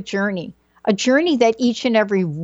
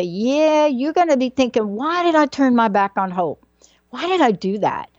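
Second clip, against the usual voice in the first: lightly voiced Southern mom, going on; a little Southern accent, pitch jumping up; mom's Southern accent; 3 semitones higher than usual. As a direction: imitate a Southern mother's animated questioning. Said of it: "the way she'd go on about this".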